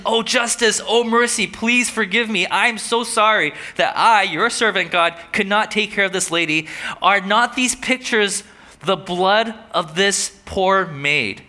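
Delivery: mild anguish, pleading; anguished prayer. Retold or imitated. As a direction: plead for forgiveness slowly. Voicing Wesley's anguished prayer.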